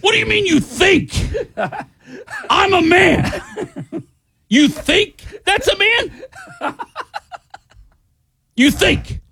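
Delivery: high, laughing mock outrage; indignant squeal, half laughing; outraged disbelief. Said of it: "And I go".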